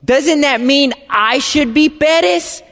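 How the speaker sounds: high, pressing disbelief; incredulous. Retold or imitated. Son questioning his mom about the family name, incredulous. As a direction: demand she explain, baffled. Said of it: "I'm like".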